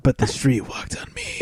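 slow, dramatic open-mic poet; beat poetry reading. Pretend. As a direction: read it like a pretentious poem.

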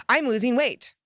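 "I'm losing weight" said high and loud with excitement; bright, loud, thrilled "I'm losing weight"; "I'm losing weight" as an excited, loud announcement. Shown as a demonstration. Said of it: "more powerful feeling of excitement".

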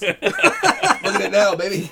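slow, loud, high sleazy croon; mock sleazy flirt. Showing off his hips to the teacher, slow and sleazy. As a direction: drag it out like a cheesy seducer.

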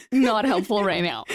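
said through a laugh. Retold or imitated. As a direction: laugh while brushing off your own brain. Laughing at her own brain.

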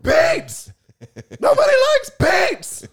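very high yelping cartoon dog; Scooby-Doo outraged at beets; Scooby-Doo impression. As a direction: yelp it like Scooby. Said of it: "do your Scooby-Doo impression".

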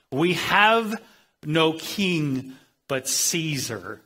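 retold public declaration, opening high and loud, then drawn out; loud, proud proclamation. Crowd publicly declaring loyalty to Caesar, loud and proud. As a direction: proclaim it proudly, stretching the words out slowly. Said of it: "say publicly and loudly and proudly".

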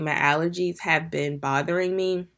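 congested, blocked-nose voice; stuffy nose. Real, not acted. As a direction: talk through a stuffy nose. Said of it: "if I sound a little stuffy".

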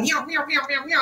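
light meowing for a racing mind; mock cat meows. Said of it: "my mind is racing".

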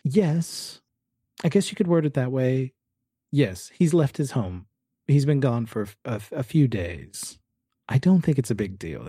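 high, insistent downplaying; guarded Rita. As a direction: explain it away in a high, careful voice. Plays Rita explaining Walter's absence.

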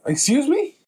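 high, shocked excuse me; disbelieving at the absurd idea; incredulous. Real, not acted.

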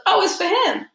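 lightly voiced mother seeing the spirit; knowing mom. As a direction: mom realizing who it's for. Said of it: "and she goes".

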